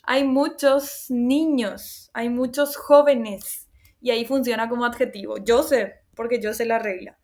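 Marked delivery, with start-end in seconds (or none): 0.0-3.7 slow example. Shown as a demonstration. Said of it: "yo puedo decir".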